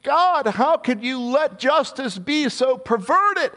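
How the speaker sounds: high, slow plea to God; a prophet's drawn-out plea; pleading prophet. Acted. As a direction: beg God in disbelief. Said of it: "is looking about and saying".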